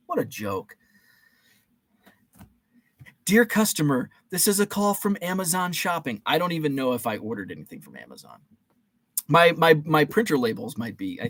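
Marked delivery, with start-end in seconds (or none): 3.2-6.2 mimicking an automated phone message, slightly raised; lightly mocked recording voice; robocall recording. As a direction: recite it like a recorded sales call. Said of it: "when I heard that recording voice".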